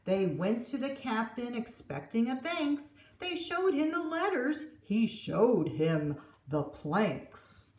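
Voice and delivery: put-on lively read-aloud for kids; gentle storytime narration; storybook reading. A narrator's reading. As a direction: read it like a picture book at story time. Reading the picture book aloud.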